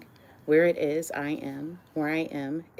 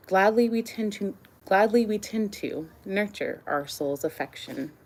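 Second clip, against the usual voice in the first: measured love-poem recital with pauses between phrases; poetry reading. Acted. Reads own love poems aloud.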